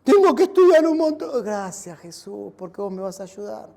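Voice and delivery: a stressed student stops and thanks Jesus; complaint turning to prayer. Pretend. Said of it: "Y así con todo". (estudiante agobiado que pasa a dar gracias en voz baja)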